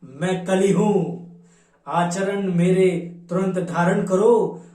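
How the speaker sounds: declamatory Hindi verse in Kalyug's words; poem recitation. Acted. Kalyug declares his intentions before Brahma, declamatory poem recitation. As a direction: declaim the verse in measured, rhythmic lines.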